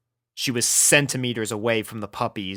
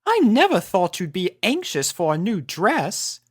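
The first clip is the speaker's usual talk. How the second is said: teasing Rarity; 7 semitones higher than usual. Acted.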